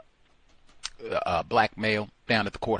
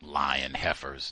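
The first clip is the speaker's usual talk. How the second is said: muttered insult; 7 semitones lower, slower than usual. Real, not acted. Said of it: "No name calling".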